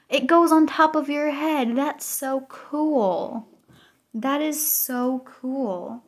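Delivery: high, slow drawn-out amazement; excited gush. Real, not acted. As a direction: marvel at it out loud. Gasp at badge on head.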